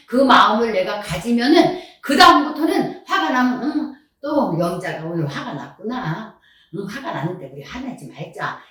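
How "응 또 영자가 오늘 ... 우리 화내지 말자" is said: soft, understanding talk to oneself; acted gentle coaxing, voice easing down; self-soothing. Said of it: "이렇게 말이 나와요".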